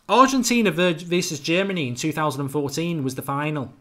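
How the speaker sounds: slipping into a light Scouse accent; a touch of Liverpool Scouse; unintended hint of a Scouse accent; bit scouse. Real, not acted. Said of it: "I've gone a bit scouse".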